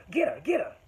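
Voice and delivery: imitating him. Worker throws a dead squirrel at her, mock loud taunt. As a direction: mimic his taunting shout as he throws it.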